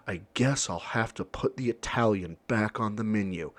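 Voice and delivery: softly deflated, grudging surrender; mildly mope it back onto the menu; defeated sigh. Retold or imitated. Shop owner giving in to the customer, lightly defeated. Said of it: "looks defeated".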